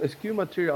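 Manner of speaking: "eschew" said as es-kyoo; unsure pronunciation. Real, not acted. Player unsure of the feat's name, "eschew" pronounced es-kyoo. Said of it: "if I'm pronouncing correctly".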